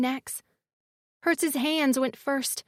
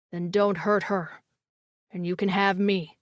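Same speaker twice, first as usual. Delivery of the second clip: low male voice; 6 semitones lower than usual. A narrator's reading. Phoenix bargaining.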